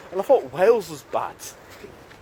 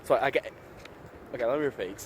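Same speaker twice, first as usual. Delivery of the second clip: tipsy. Real, not acted. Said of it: "Sorry, I'm a bit tipsy".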